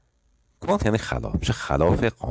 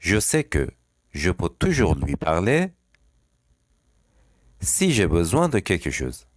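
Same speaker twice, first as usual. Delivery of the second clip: slow dictation; much slower than usual. Shown as a demonstration. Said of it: "تکرار کنید اول".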